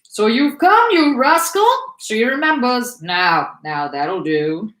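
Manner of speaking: loud, high, playful scolding; high excited call easing down into slow soothing; calling to a dog. A narrator's reading. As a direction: fuss at the dog, then settle it. Soldier greeting his jumping dog.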